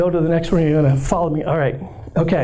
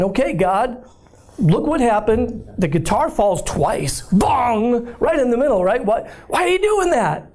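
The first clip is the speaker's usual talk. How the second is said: exasperated at God; 4 semitones higher than usual. Retold or imitated. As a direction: pitch climbing to a high, baffled complaint. Preacher voices himself complaining to God.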